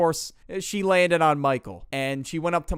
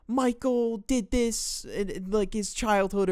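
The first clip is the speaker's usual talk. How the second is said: mock girl voice; 7 semitones higher than usual. Girl spreading lies on stage.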